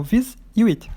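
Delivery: "vis" and "it" as two separate pieces; split into syllables. Shown as a demonstration. Teacher dividing visit for the class, syllable by syllable. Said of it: "Ele tem duas sílabas".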